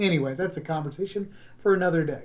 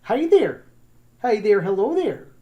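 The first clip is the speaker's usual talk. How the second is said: loud Midwestern greeting, Wisconsin vowels; Wisconsin accent; 4 semitones higher, 6 dB louder than usual. Shown as a demonstration. Teacher demonstrating Midwest hellos, broad Wisconsin accent. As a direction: call it out like a Wisconsinite. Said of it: "from Wisconsin in the Midwest".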